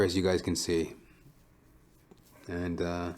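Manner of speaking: usual speaking voice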